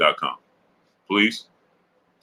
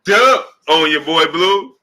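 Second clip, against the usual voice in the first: mock girlfriend scolding; 7 semitones higher, 4 dB louder than usual. Retelling the girlfriend's reaction to the donation, mock incredulous scold. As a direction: stretch out the girl's outrage. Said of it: "she said".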